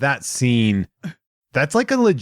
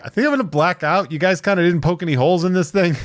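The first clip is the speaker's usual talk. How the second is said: panicked; 6 semitones higher, faster than usual. Retold or imitated. Panicked man on alien ship.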